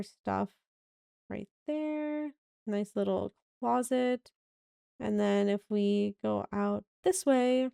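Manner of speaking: slightly raspy evening voice; a tired, raspy throat. Real, not acted. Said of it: "sorry, my voice is kinda raspy".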